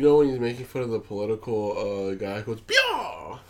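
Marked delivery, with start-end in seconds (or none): 2.6-3.4 Howard Dean scream. Retold or imitated. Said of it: "the Howard Dean scream".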